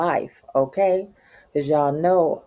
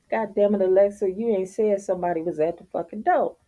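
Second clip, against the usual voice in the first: annoyed scolding; 5 semitones higher, faster than usual. Retold or imitated. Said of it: "and I'm like".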